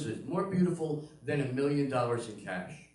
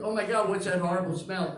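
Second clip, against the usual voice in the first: disgusted outcry; 7 semitones higher, 5 dB louder than usual. Retold or imitated. Wife woken by smell.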